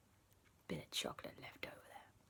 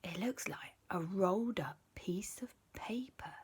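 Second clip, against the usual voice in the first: soft unvoiced whispering; whispered; 6 dB quieter than usual. The two boys whisper to each other about the hidden paper. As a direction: hush it so nobody hears.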